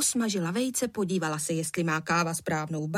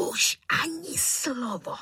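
mild wheezing snap; 6 semitones higher, slower than usual. A narrator's reading. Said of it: "zasýpal tatínek".

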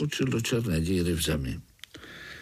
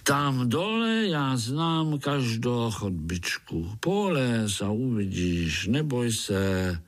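coaxing mole; slower than usual. Acted. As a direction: lure him down gently. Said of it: "lákal ho Krtek". (lákavě, pomalu)

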